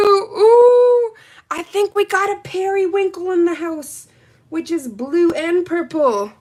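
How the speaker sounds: high excited squeal. Real, not acted. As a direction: squeal with delight at the color. Excited periwinkle reveal.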